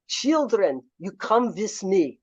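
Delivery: light imitation of a heavy Russian accent; a hint of Russian accent, beckoning friends home. Rostropovich calls his close friends home, a light Russian accent. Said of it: "'cause he had this heavy Russian accent".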